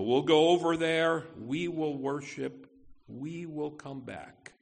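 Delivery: "we" leaned on at the start of each clause; stress on we. Shown as a demonstration. Pastor showing Abraham expects both to return, stress on "we". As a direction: hit every "we", clause by clause. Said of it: "the emphasis".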